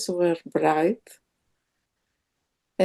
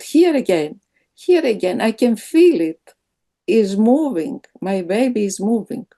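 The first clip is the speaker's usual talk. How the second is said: pointing out each new flutter; excited; 4 dB louder than usual. Retold or imitated. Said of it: "all excited to feel it".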